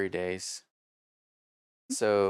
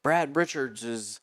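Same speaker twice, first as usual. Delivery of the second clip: race announcer; 3 semitones higher than usual. Retold or imitated. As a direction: call it a bit like a track announcer. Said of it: "the guy who was the announcer".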